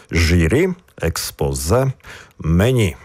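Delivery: "Журі, експозе, мені" each stressed on the final syllable; stress on last syllable. Shown as a demonstration. Teacher showing French loanwords, stress on final syllable. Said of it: "також акцентуємо останній склад".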